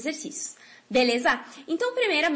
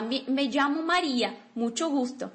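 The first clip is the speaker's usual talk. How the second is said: model sentence. Shown as a demonstration. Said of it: "ela fala".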